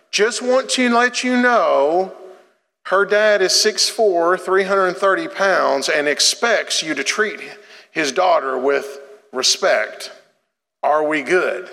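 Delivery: slow, high, pointed protective-dad warning; stern dad warning. Retold or imitated. Father reading his warning note to the boyfriend, slow and pointed. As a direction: read it out slow like a veiled threat to the boy.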